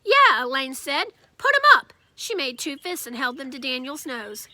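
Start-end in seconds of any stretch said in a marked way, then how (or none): 0.0-0.4 high loud challenge shout; girl daring a little kid to fight, loud; tough yell. Acted. Elaine challenging Daniel to fight. 1.4-1.9 high loud challenge shout; girl daring a little kid to fight, loud; tough yell. Acted. Elaine challenging Daniel to fight.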